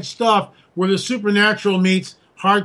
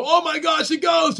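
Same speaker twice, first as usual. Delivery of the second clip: mock freak-out; 9 semitones higher than usual. Retelling disciples seeing Jesus appear, mock terrified. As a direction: imitate startled disciples squeaking in fright. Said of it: "they all freak out and go".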